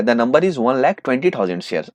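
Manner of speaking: very slow, drawn-out number; slow reveal. Acted. Teacher reveals the applied shares to students, slowly. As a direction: give the number out slowly, word by word.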